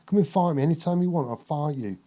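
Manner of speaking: mock-aggressive boxer goading his rival; imitating Nigel Benn. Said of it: "Like that".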